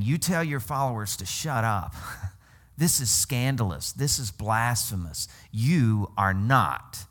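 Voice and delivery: scandalized accusers, hammed-up with laughs; mock outraged Pharisees. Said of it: "That's why they're saying".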